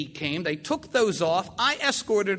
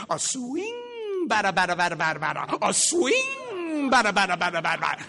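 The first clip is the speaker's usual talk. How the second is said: ballplayer chatter. Retold or imitated. Patient heckling batter from second base, sing-song chant. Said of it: "he'd do this pattern".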